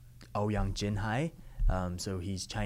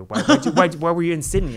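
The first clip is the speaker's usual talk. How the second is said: surprised friends; 8 semitones higher, 14 dB louder, faster than usual. Retold or imitated. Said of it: "they're like".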